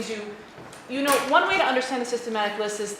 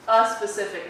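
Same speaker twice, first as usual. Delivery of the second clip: "a" set apart before "specific"; "a specific" as a careful correction; stress on A. Shown as a demonstration. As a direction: correct the article, marking the "a" clearly. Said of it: "It's not an".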